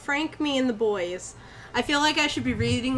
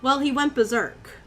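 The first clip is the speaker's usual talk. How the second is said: even first-person storytelling; story narration. A narrator's reading. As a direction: read it out as an eerie anecdote. Reads the story aloud.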